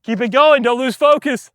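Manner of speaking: shouting encouragement to himself mid-rally; self-coaching shout. Real, not acted. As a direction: push yourself through the rally out loud. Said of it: "coaching himself mid-rally".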